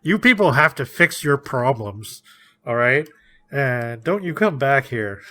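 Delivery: mildly voiced stern scolding; mock telling-off, firm and a little loud; stern, no warmth. Imagined islander banishing the visitors, lightly acted sternness. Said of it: "no warmth whatsoever".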